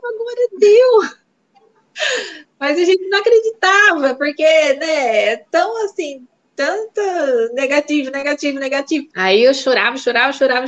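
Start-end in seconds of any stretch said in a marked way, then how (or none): 0.1-1.2 much higher and louder, breaking with joy; overjoyed. Retold or imitated. Wife telling her husband the test is positive, overjoyed. 2.6-9.1 tearful. Real, not acted. Woman recalling the positive pregnancy test, tearful.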